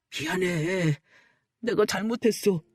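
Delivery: put-on subdued, contrite boyfriend; acted remorseful plea; pleading apology. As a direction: beg to be forgiven, keeping it low-key. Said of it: "미안하다고 빌어댔어요".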